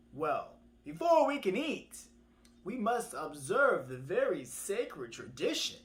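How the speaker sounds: slow, swooping, emphatic delivery; pompous tortoise. Acted. Trickster tortoise lectures birds on tradition, mock-solemn. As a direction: lay it down grandly, word by word.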